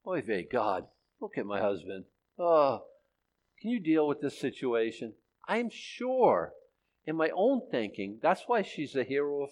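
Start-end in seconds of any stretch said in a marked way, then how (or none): 0.1-5.1 put-on low, soft Yiddish-accented sigh. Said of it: "you think she prayed".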